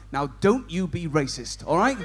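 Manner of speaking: mock lecturing. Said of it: "and go".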